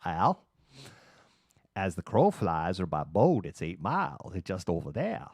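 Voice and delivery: lightly put-on coastal Maine accent; hint of an old-school Maine local. Maine local giving a lost driver directions, Maine accent.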